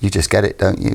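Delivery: ordinary talk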